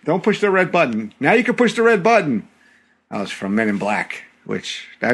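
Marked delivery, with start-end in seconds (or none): 0.1-2.5 quoted movie line. Retold or imitated. Quoting Men in Black.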